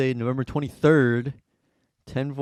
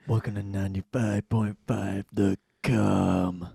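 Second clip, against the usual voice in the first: radio DJ; 2 semitones lower than usual. Pretend. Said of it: "We sound like radio station D Js".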